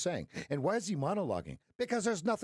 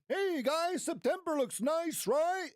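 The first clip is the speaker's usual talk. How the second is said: much higher, naive and cheerful; clueless Frank the Tank; 11 semitones higher, slower than usual. Retold or imitated. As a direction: play the clueless trader, pitched way up. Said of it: "Frank the Tank going".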